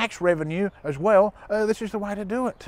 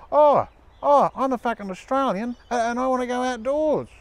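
higher, whingeing pleading voice; whiny bogan Aussie; 5 semitones higher than usual. Pretend. Role-playing an Aussie begging to go outdoors, higher whiny voice. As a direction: play a sulky Australian who wants out. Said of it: "let's do a little bit of bloody role-playing now".

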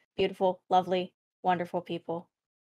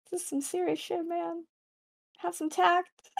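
gruff character voice; 7 semitones higher, 7 dB quieter than usual. Acted. Player voices character Nyoka.

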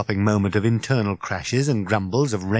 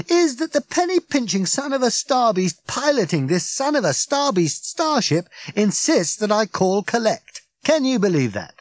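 higher, indignant Ford voice; Ford, outraged; 8 semitones higher, 3 dB louder than usual. Acted. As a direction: rant about the stingy pilot. Ford retells phone call.

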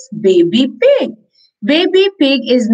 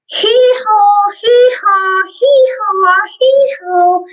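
donkey bray; 8 semitones higher than usual. Acted. Donkey sound in story.

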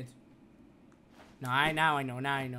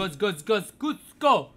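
loud, higher cheering chant; psyching myself up; 4 semitones higher, 9 dB louder than usual. Real, not acted. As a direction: pump yourself up, louder. Gamer cheering himself on.

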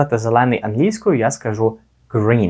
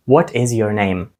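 faster; slower than usual. Shown as a demonstration. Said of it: "Ще швидше".

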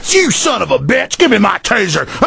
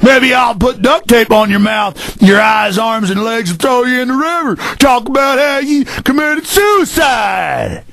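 imitating bullying cop. Radio host imitating a bullying cop for callers, shouted sneer. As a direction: bark it like a power-drunk cop lording over citizens. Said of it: "that's an imitation of 'em".

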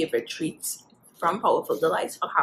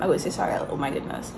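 talking while chewing food; muffled behind hand at mouth; mouth full, chewing; 4 semitones lower, much faster than usual. Real, not acted. Seen 0: Hand covers mouth, lips moving; apologizes mid-bite, hand drops by 1.2.

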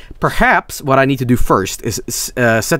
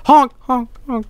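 silly clown; 12 semitones higher than usual. Retold or imitated. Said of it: "It's gonna be like".

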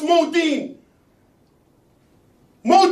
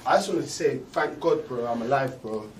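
low, heavy ranting voice; brooding angry rant; 13 semitones lower, 9 dB quieter, faster than usual. Acted.

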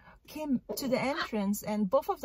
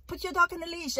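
retold yell; 7 semitones higher, faster than usual. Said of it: "And I was screaming".

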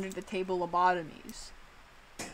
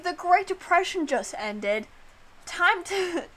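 higher, louder hammed-up ad pitch; mock ad announcer; 4 semitones higher, 3 dB louder than usual. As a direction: sell it like a cheesy fifties commercial. Mock lobotomy advertisement.

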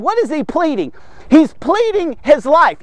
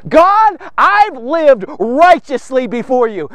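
mildly dramatized appeal to God; pouring out heart; 3 dB louder, slower than usual. Acted. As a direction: call out to God, then slow down earnestly. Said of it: "He's just pouring out his heart".

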